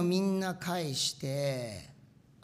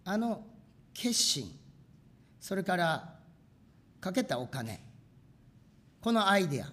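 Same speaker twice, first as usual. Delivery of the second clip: retold prayer; 2 semitones higher, 3 dB louder than usual. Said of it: "取り出して祈った".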